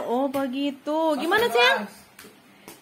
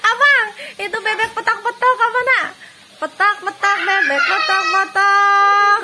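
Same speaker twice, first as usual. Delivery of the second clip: laughing question; 4 semitones higher, 5 dB louder than usual. Real, not acted. Laughing at odd duck.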